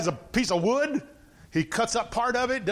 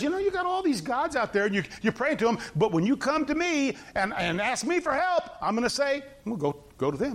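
sarcastic; 4 semitones higher than usual. Acted. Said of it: "You don't think God's being sarcastic?".

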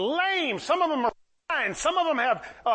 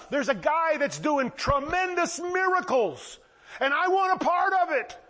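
eager report, building higher; excited crowd; 6 semitones higher than usual. Retold or imitated. Villagers spreading word of a miracle worker, excited. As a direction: voice rising high with wonder.

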